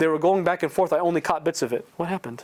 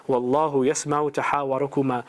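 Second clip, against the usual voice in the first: quick, flowing recited chant; Quran recitation; much faster than usual. Shown as a demonstration. Preacher reciting the verse about the arguing wife, fast chant. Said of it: "the ayat I wanna read to you".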